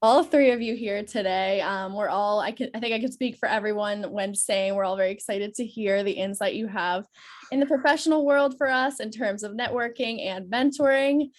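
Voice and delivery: stuffy nasal voice from a cold. Real, not acted. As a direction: speak through a blocked, nasal nose. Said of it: "excuse my nasal voice today".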